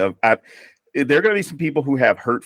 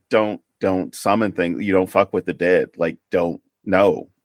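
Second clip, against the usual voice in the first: imitating mom's warning; 5 semitones lower than usual. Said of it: "my mother's side of the family, um, their first thing is".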